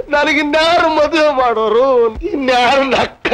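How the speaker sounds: tearful. Acted. Tenant cries to the landlady, acting grief. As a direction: wail the question, grieving. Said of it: "ಅಳ್ಬೇಡ ತಮ್ಮ".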